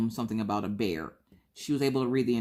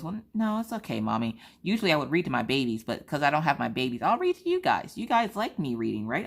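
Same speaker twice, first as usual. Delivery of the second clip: put-on sweet child voice; 2 semitones higher than usual. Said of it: "She goes".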